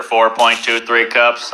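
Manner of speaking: low, slow assistant readout; Alexa voice. Acted. Alexa answering the man's question, low and slow. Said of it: "Hey, Alexa".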